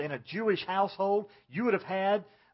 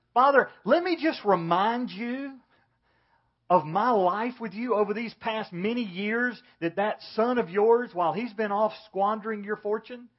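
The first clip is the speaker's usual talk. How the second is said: put-on indignant older brother; 5 semitones higher, 3 dB louder than usual. Older brother reminding his father of his years, indignant. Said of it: "He's provoked and enraged".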